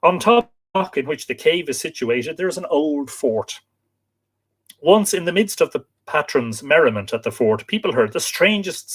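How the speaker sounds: storytelling read with lifted phrase openings; reading aloud. Acted. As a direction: read out a local legend, phrase by phrase. Reads folklore account aloud.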